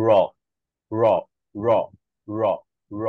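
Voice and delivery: র flicked from the palate downward; the tongue drops from above on each র; a repeated downward flap; flapped ড়. Shown as a demonstration. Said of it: "জিভ উপর থেকে নিচে নেমে আসে".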